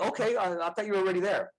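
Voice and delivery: playful mock-friend quote; mock nonchalant friend. Acts out the honest friends' reply.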